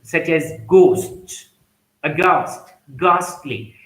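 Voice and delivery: "ghost", "aghast", "ghastly" with hard G and no H; "ghastly" said with a plain G; silent H. Shown as a demonstration. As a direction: slowly model silent H in "ghost". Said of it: "H is mute".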